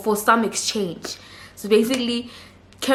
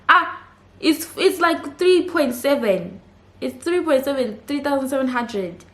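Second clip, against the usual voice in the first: surprised; 5 semitones higher than usual. Real, not acted. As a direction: sound baffled by how little it is. Shocked at small naira sum.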